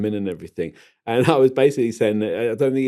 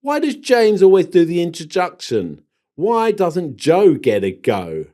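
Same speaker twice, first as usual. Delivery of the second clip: mock indignant question; 7 semitones higher, 6 dB louder, slower than usual. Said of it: "What I'd like to know is".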